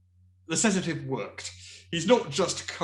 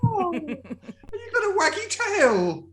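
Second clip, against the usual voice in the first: very high, slow and wondering; sedated turtle cooing at the dog; dreamy turtle voice; 4 dB louder, much slower than usual. Acted. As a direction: marvel like a drugged child.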